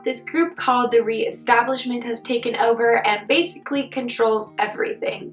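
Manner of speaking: hoarse, husky sick voice; talking through a sore throat. Real, not acted. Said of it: "in my sick voice today".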